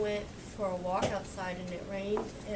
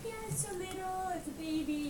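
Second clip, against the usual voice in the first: mock cooing to kids; 10 semitones higher than usual. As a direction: play along sweetly, like with small children. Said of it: "You're like".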